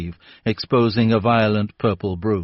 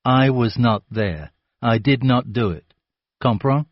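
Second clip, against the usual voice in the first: slow, condescending; 3 semitones higher than usual. Acted. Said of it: "let me say this again slowly".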